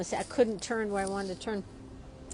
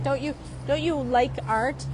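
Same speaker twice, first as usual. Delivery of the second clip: pushing it; 3 semitones higher than usual. Retold or imitated. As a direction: needle him playfully with the question. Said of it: "I was kinda pushing it".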